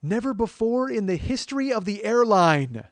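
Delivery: high, loud, slow, drawn-out proclamation; mock-grave captain, booming and stretched out; captain's announcement. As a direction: announce it like a captain making history. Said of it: "the captain came on and he actually said".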